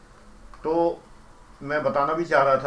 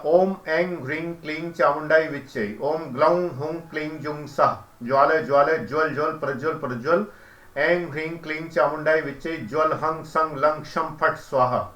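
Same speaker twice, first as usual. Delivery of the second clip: mantra recitation. Shown as a demonstration. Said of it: "तो जब इसमें बोला जाता है".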